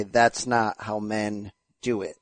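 low, slow imitation of a gruff pronouncement; John Fury. Quoting a fighter on how men behave, low, slow impression. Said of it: "as John Fury would say".

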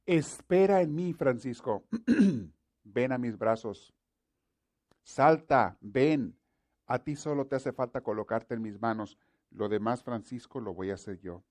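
inviting God calling Francisco to leap into his arms. Acted. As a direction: call out warmly as God.

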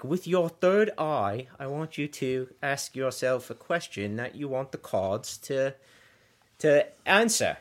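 slow Australian fairy imitation; Australian accent. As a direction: give the fairy's instructions in put-on Australian. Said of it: "she had this Australian accent".

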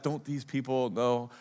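quiet, grumbling mock CEO; mumbled under breath. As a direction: grumble it half to yourself. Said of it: "mumbles under his breath".

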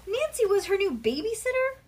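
high, loud incredulous question; shocked disbelief. A narrator's reading. Bean's horror at her sister as babysitter, loud high disbelief. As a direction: echo the child's outrage.

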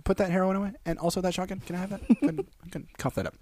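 high, soft, cautious request; careful coaxing. Acted. Gently talking a rock singer down.

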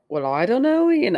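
half-hearted Scottish accent; attempted Scottish accent. Shown as a demonstration. Co-host trying out a line for a friend, weak Scottish accent. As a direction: have a shaky go at a Scottish accent. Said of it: "I can't do Scottish".

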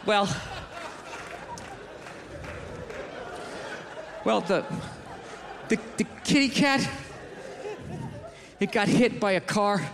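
halting, low, with long pauses; reluctant bad news. Lady breaks the kitty's death to gorilla, haltingly. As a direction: stall awkwardly before admitting it.

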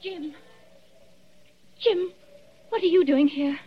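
calling from afar. Acted. Wife calls from afar.

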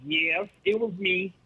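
slow, meek admission; cowardly voice. Retold or imitated. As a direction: timidly own up, slowed down. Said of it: "in a very cowardly voice".

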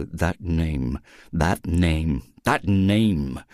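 plain reading voice

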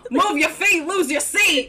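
playful hammed-up Southern accent. Teasing co-host with a folksy saying, mock Southern accent. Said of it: "That sounds like a Southern saying".

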